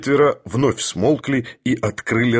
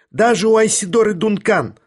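high, ringing cry; woman scores her point, high ringing shout; 10 semitones higher, 3 dB louder than usual. A narrator's reading. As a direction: fling it out high and sharp. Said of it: "звонко крикнула женщина".

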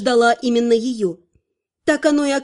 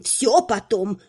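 всё stressed, brushing it aside; dismissive; 4 semitones lower, much slower than usual. Acted. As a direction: hurry them off on всё. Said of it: "отмахнулась магистр".

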